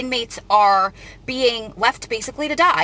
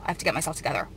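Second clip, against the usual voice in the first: crying and laughing; 5 semitones lower, 3 dB quieter, faster than usual. Real, not acted. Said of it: "crying and laughing at the same time".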